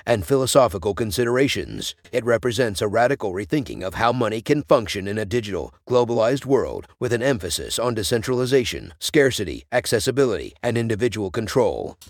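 neutral, almost robotic voice; even machine-like delivery. Acted. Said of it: "almost robotic voice".

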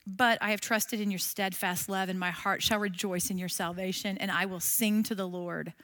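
a touch of hushed trust; soft recited verse. Shown as a demonstration. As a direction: pray the verse softly. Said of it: "How about this one?".

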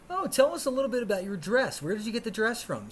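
high-pitched, chatty reporter; mock celebrity interviewer; red carpet interviewer. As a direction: gush a question at a gala guest.

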